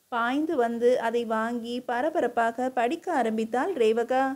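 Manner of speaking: ordinary delivery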